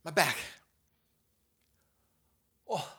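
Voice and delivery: high, loud groans of back pain; hammed-up aching back yelps; pained cries. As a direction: cry out as your back locks. Back pain while rocking.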